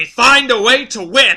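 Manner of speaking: sudden, very loud, high yell. Recapping the immunity challenge, the speaker retells how Philip yelled. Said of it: "And then he just yells".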